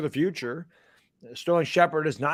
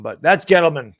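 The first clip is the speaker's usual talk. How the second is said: usual speaking voice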